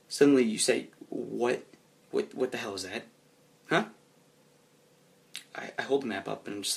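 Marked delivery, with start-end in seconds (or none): 1.1-3.9 understated irritated confusion; confused, slightly angry. Acted. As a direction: sputter it quietly in disbelief. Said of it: "completely confused and slightly angry".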